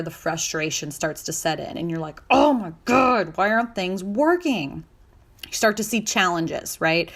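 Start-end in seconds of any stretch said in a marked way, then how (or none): 2.3-4.8 louder, higher, drawn-out exasperated cry; mock exasperation at stalled progress; frustrated outburst. Stuck goal-setter venting, exasperated.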